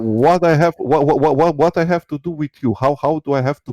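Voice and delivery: worked up and tripping over repeated words; freaking out. Real, not acted. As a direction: push out an agitated, stuttering challenge. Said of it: "you're freaking out".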